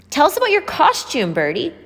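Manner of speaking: put-on high, eager child voices asking; children prompting. A narrator's reading. Children begging Bertie for her story, high and eager. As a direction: kids coaxing an old friend to tell a story. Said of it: "the children prompted".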